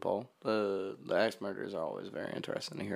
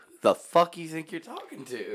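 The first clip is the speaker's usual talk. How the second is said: tough cop retort; 5 semitones higher, 8 dB louder than usual. Pretend.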